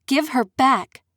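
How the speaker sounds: furious order, barely holding back; enraged demand. Acted. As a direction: bark it through clenched teeth. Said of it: "trembling with rage".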